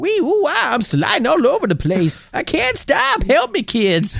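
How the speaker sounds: high mock panic yelling for help. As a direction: cry for help, sliding around.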